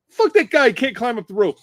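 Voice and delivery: mock him like the whole rowdy crowd; jeering yell. Marines jeer at the staff sergeant.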